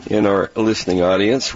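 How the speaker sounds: peanut butter stuck to the roof of the mouth; speaking around a sticky mouthful; mouth full of peanut butter. Real, not acted. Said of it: "I think I'm doing the same thing".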